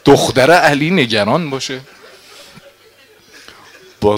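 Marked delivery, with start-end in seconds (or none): 0.1-1.8 high, loud, anguished preaching cry; agitated outcry. Acted. Nafe hearing Zeinab's worry, crying out loud. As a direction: cry out in alarm at full voice.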